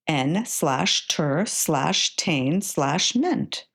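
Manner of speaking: slow, each syllable apart; syllables sounded out slowly. Shown as a demonstration. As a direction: tap out each chunk slowly for a child. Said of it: "sound out the syllables".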